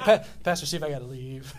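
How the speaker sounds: laughing imitation of friend. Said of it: "He's like".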